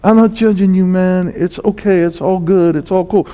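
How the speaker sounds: mock easygoing Jesus who judges no one; laid-back dude. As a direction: shrug it all off, nothing matters. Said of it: "walks around and goes".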